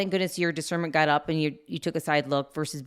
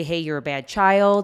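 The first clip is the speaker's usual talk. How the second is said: mock scolding; 5 dB louder, slower than usual. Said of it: "We did not say".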